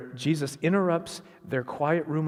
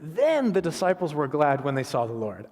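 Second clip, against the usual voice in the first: emphatic gladness; 3 dB louder than usual. Acted. Preacher reading the glad verse to the congregation, emphatic. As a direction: stress on "Then", a little lifted. Reads verse, then says he loves it.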